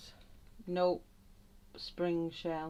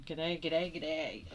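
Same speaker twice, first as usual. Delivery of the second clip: Aussie accent; slower than usual. Shown as a demonstration. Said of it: "makes me sound even more Aussie".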